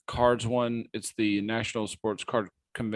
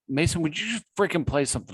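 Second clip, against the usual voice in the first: impatient; 6 semitones higher, faster than usual. Real, not acted. Impatient at broken beat.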